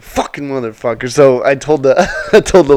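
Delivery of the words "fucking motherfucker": laughing curse. Retold or imitated. Host amused after agreeing to refund, laughing curse. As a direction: laugh then swear under your breath.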